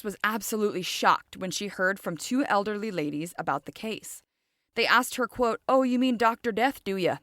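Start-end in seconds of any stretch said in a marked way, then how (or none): 5.7-7.2 lightly put-on British accent, higher at the start. Retelling elderly ladies' question to a journalist, British accent. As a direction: slip into an imitation British accent. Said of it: "sorry if I just had an accent".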